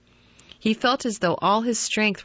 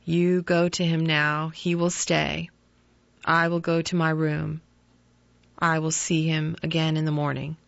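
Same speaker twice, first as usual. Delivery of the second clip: shaken; 2 semitones lower than usual. Acted. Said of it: "in a shaken voice".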